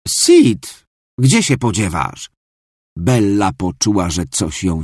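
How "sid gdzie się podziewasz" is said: high call across the house; mother calling her son to hurry. Acted. Mother calls Sid from the car, raised high call.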